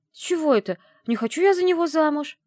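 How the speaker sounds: high, loud indignant protest; loud scoffing denial, pitched high; indignant snort. Acted. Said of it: "фыркнула я".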